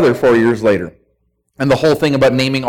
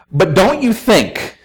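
slow, higher-pitched mock suggestion; coaxing objection; 4 semitones higher, slower than usual. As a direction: imitate someone floating a doubtful suggestion. Voices someone about to rewrite scripture.

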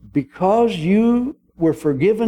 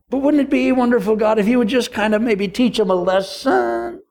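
higher, sweetly vindictive prayer; tongue-in-cheek vengeful prayer; mock prayer; 3 semitones higher than usual. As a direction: pray with sly mock innocence.

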